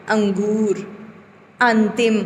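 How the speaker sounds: अंगूर and अंतिम with the अं sounded through the nose; teacher showing the nasal अनुस्वार. Shown as a demonstration. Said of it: "नाक में जाते हैं".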